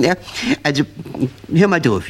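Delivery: ordinary talk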